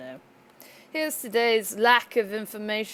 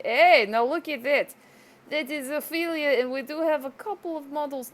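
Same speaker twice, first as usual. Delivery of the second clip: mock announcement; 4 semitones higher than usual. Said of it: "not like I can really say".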